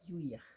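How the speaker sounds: Yuyaj said softly with a falling end, for the class to repeat; Cañari word yuyaj. Shown as a demonstration. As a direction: model the word Yuyaj quietly. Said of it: "también decimos yuyaj".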